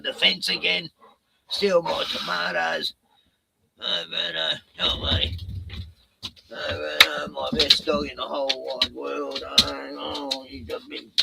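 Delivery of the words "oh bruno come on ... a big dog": doting on the dog. Real, not acted. Owner coos softly to his dog Bruno. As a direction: coo over him softly.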